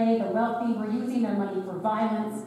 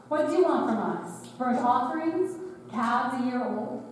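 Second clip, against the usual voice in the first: sarcastic; 2 semitones higher than usual. Acted. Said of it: "respond with a certain sarcasm".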